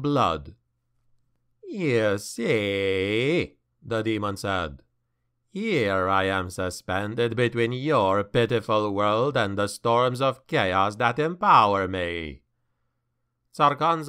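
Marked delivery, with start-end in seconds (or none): 1.7-3.6 low, slow, menacing demon. Acted. Demon speaks to Malus. 5.5-12.4 low, gloating demon; menacing demon voice. Acted. Demon speaks to Malus.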